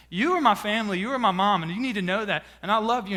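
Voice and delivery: retold loving insistence; heartfelt declaration. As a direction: press each phrase home to Mom. Retells emotional declaration to his mom.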